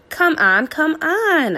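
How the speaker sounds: rising, pleading urge; eager barking. A narrator's reading. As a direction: beg her to play. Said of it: "I bark".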